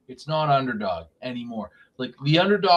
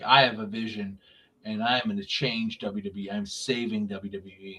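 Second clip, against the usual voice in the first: imitating Rollins; 4 semitones lower, 5 dB quieter than usual. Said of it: "when Rollins was like".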